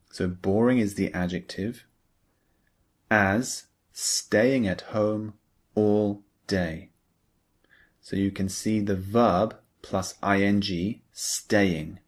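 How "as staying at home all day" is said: unhurried, stretched-out example phrase; slow model reading. Shown as a demonstration. Teacher reading the example sentence slowly for learners. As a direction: read it slowly so learners follow. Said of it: "Look at the example below".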